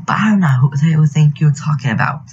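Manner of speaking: mild mock scream of protest; retold scream. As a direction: retell an indignant scream without really screaming. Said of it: "I screamed in her face".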